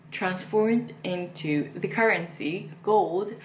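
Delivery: odd, halting slow delivery; slow, oddly deliberate explaining; talking weirdly. Real, not acted. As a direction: space the words out strangely, slowly. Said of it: "I don't know why I'm talking so weirdly".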